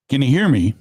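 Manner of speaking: hollow, echoey phone line; sounding like inside a cave. Real, not acted. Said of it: "It sounds like you're in a cave".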